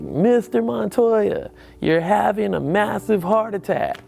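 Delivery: slow, solemn doctor voice; grave doctor. Retold or imitated. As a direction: break the news slowly and gravely. Doctor delivers grave news.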